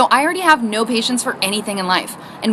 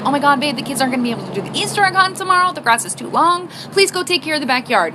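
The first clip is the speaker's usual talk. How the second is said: higher-pitched, upset plea; emotional pleading; 4 semitones higher than usual. Retold or imitated. Pregnant wife begs husband about the long grass, emotional. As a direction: plead in a worked-up voice. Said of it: "all emotional".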